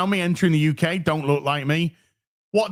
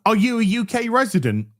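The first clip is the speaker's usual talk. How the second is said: officer voice; 5 semitones higher than usual. Retold or imitated. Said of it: "she says".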